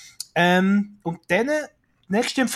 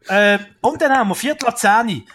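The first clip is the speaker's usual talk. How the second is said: normal talking voice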